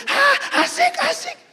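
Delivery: imitated wife in squeaky falsetto; high-pitched gleeful cheer, hammed up; thrilled squeal. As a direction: mimic a delighted rider squealing. Acts wife thrilled on the ride.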